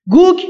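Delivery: teacher sounds out گوگ for the class; word pronounced. Shown as a demonstration. Teacher naming the Turkic word, pronouncing گوگ clearly. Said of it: "یعنی آسمانی".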